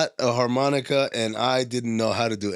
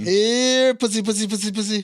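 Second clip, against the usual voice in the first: convict taunt; 8 semitones higher than usual. Retold or imitated.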